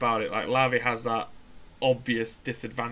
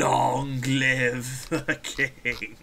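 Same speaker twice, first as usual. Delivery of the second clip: dramatic proclamation; much slower than usual. Acted. Mock royal proclamation.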